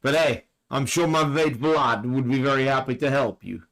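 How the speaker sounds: put-on a barely-there, half-hearted Russian accent; terrible Russian accent. Podcast host jokingly voicing Putin's mate Vlad in a bad Russian accent. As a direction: lightly put on mock Russian accent, mostly his own voice. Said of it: "That was a terrible Russian accent".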